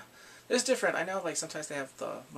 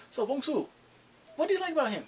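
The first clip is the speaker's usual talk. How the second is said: father; 10 semitones higher, faster than usual. Retold or imitated. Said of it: "then the father's like".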